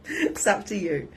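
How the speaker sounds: laughing repeat; amused repeat. Real, not acted. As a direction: laugh as you say it again.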